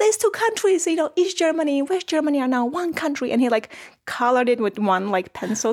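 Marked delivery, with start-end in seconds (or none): 0.0-3.3 put-on thrilled, excited, pitched-up voice. Retelling a dad's words about the Berlin Wall falling: imitating excited dad.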